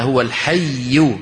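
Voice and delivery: slow "هو الحي" pressing hard on the ي of "الحي"; slow careful recitation demo; stressed stop on the doubled letter. Shown as a demonstration. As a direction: lean into the doubled ي in "الحي" at the pause. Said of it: "لو أردت أن أقف على".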